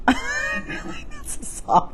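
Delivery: high, slow laughing aside. Real, not acted. Realizing she quoted a song, laughing high and slow. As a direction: giggle through the words.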